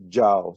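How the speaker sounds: "jao" with a gliding A-U diphthong. Shown as a demonstration. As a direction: say "jao" as one syllable, A sliding into U. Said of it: "it's pronounced".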